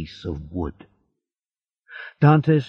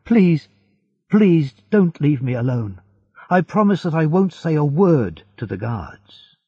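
raised, higher-pitched begging; pleading cry; 6 semitones higher, 3 dB louder than usual. A narrator's reading. Prisoner promising silence to the unseen voice, pleading cry. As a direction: beg urgently to be trusted. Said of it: "he cried".

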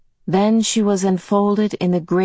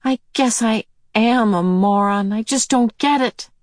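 put-on frustrated girl; 5 semitones higher than usual. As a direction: sound fed up with yourself. Meg frustrated.

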